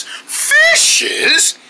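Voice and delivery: a tiny high squeak of a question; squeaky high voice. Acted. Puppets discover fishes.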